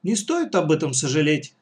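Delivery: level, unhurried reassurance; composed, matter-of-fact calm. Acted. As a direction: say it evenly and composedly. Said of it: "спокойно сказал Юра Цветков".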